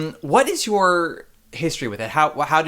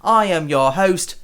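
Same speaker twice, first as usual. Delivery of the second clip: lively, higher-pitched show opener; podcast intro; 4 semitones higher, 3 dB louder than usual. Acted. Host welcoming theatre lovers to Broadway podcast, announcer style. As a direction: welcome listeners like an upbeat host. Host reads the show's opening.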